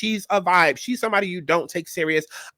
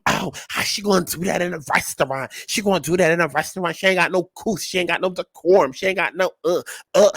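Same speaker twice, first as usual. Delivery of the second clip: mock prissy outrage; 2 semitones lower than usual. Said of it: "talking about some".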